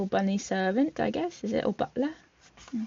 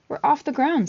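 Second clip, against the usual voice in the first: higher, louder shout of liftoff; excited cry; 6 semitones higher, 4 dB louder than usual. Acted. Sebastian as the ship lifts off, excited cry. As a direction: call out in thrilled triumph. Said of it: "Sebastian cried".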